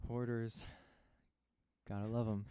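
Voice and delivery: upbeat slogan with a punchy finish. Real, not acted. Friend summing up hoarders to a friend, like an ad slogan. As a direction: sounds like a sponsor tag. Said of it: "Was this like an ad".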